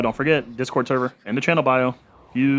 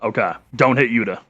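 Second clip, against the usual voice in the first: shouting. Real, not acted. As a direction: yell it at the screen. Yelling at game character.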